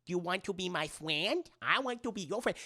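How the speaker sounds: a hint of Adam Sandler's Waterboy; mild Waterboy impression. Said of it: "He sounds like Adam Sandler in Waterboy".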